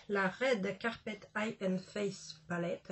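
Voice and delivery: slow, hammed-up English accent on the product name. Shown as a demonstration. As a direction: read the palette name out in a self-mocking English accent. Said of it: "avec mon super accent English".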